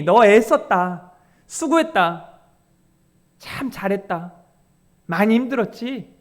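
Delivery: tender praise. Acted. The Lord praising the faithful.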